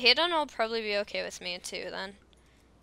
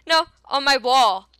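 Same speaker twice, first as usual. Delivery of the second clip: screaming at a spider; 2 semitones higher, 6 dB louder than usual. Real, not acted. Pleading with the spider.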